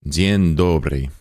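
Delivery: Dzień dobry said slowly and falling; slow Polish retry. Shown as a demonstration. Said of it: "I don't know how to say it".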